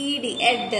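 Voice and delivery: "ed" given as one short final sound; word-ending sound. Shown as a demonstration. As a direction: sound out the ending "ed" on its own for pupils. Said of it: "the last sound is". ("ed" చివరి శబ్దాన్ని విడిగా పలకడం)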